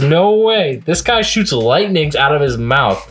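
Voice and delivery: put-on high, incredulous teen voice; Kyo protesting. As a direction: protest like a kid nobody believes. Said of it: "And he says".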